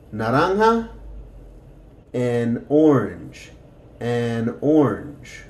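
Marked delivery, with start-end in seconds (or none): 2.1-5.5 slow clear model. Shown as a demonstration. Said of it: "vamos a practicar eso".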